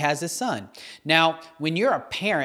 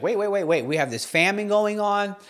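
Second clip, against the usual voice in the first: mild retold panic, pitched up; freaking out; 4 semitones higher than usual. Widow protesting to Elijah about the famine, mildly freaking out. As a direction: act out a widow starting to freak out, lightly. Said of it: "she starts freaking out".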